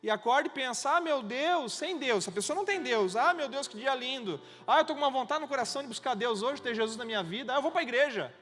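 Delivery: high, loud, hammed-up enthusiasm; mock eager seeker. Preacher parodying someone deciding to go to church, mock excited. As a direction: act out an implausibly keen would-be believer.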